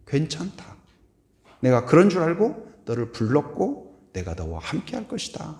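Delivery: reassuring Jesus. Retold or imitated.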